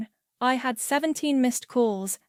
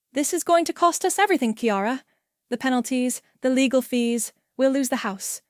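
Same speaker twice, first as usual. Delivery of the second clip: panicked; 3 semitones higher, faster than usual. Acted. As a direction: rush out the fears. Husband panics about costs.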